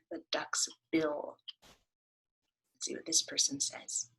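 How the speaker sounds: put-on soft whispered aside to the kids. Teacher whispering the word to the class. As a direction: lean in and whisper it.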